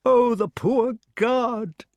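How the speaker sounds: high, slow fretting king; the king, anxious from the window; excited old king. Acted. Arthur watching the battle.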